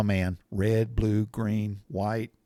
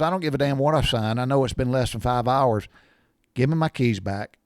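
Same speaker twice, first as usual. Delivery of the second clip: retold irritated refusal; 2 semitones higher, 4 dB louder than usual. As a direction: cut the salesman off like an indignant dad. Acted quarrel of father with salesman.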